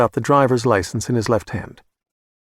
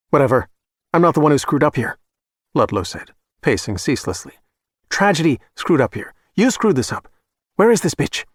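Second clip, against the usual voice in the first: rising anger at their mistake; angry blame; 2 semitones higher than usual. Acted. Client blaming the killers, building to an angry demand.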